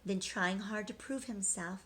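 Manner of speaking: rhythmic storybook read-aloud; reading to children. A narrator's reading. Teacher reading a rhyming picture book to children, sing-song. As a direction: read the rhymes to the class, lilting.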